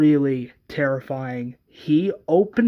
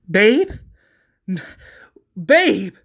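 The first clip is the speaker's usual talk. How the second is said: higher, louder disbelieving question; alarmed calling; 5 semitones higher, 6 dB louder than usual. Acted. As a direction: call to your partner in rising alarm. Acted woman finding partner dead.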